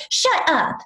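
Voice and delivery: high mock-amazed exclamation; excited disbelief. Fan learns the host is right behind, excited. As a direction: imitate a fan who can't believe it. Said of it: "she was so excited to meet me".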